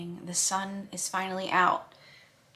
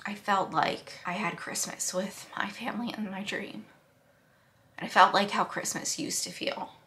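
whispered through real tears; breathy, moved, close to crying; happy tears; 4 dB quieter than usual. Real, not acted. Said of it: "these are, like, happy tears".

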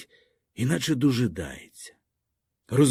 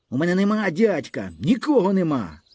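defiant cry; 6 semitones higher than usual. A narrator's reading. Boy insists he has nobody.

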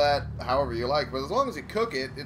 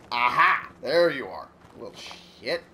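triumphant; 5 dB louder than usual. Real, not acted. Finally finds the hidden item.

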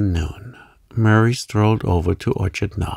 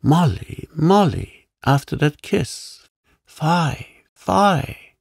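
high-pitched, pleading reproach; mock-scolding protest, pitched well up; reproachful; 8 semitones higher, slower than usual. A narrator's reading. Suitor protests Molly's refusal after a kiss, reproachful.

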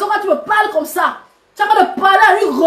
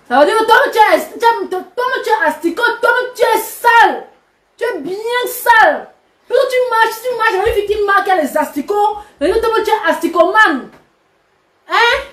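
higher, heated taunting; scornful rant; 4 semitones higher than usual. Real, not acted. Influencer taunting her rival as dirty, heated scorn. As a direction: jab each insult at her. Insulting Coco Lago on live.

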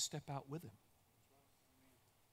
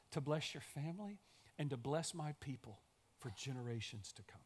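softer, tender God voice; calm him down softly, like a patient father; gentle reassurance; 2 semitones lower, 5 dB quieter than usual. Acted. God softly reassuring a worried Abraham, tender.

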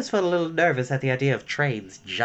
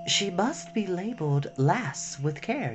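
softer, higher and slow gentle voice; softly, tenderly; 4 semitones higher, 5 dB quieter, slower than usual. A narrator's reading. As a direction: say it gently from far off. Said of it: "a very gentle voice".

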